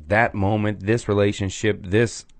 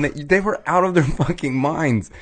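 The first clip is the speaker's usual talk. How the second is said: mock future voice; 6 semitones higher than usual. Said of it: "They're gonna look back going".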